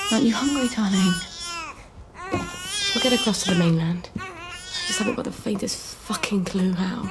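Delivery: tearful. Acted. Mother despairs to her baby.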